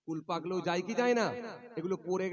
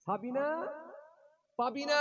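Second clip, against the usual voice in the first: higher call with a cry in it; 10 semitones higher than usual. Retold or imitated. Father calls again for lost daughters, crying out. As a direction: call out the names, voice breaking.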